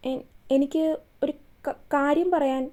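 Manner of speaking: breaking off on the first sounds of എനിക്ക് and കാര്യം; nervous stammer. Acted. Shalabha nervously stammers before confessing to Suryan. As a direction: stumble nervously through എനിക്ക് ഒരു കാര്യം. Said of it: "വിക്കാതെ പറയാൻ ഞാനൊരു തവണ പറഞ്ഞു".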